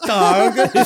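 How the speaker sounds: target hit loud on the first syllable; leaning into the start. Retold or imitated. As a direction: punch the start of target like a hockey stick. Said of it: "he really leans into the beginning of it".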